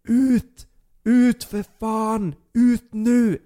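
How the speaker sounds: high, loud furious yell to get out; dad screaming. Retold or imitated. Father screaming at his son to get out, furious high yell. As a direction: bellow it like a furious father at the door. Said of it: "Han skriker".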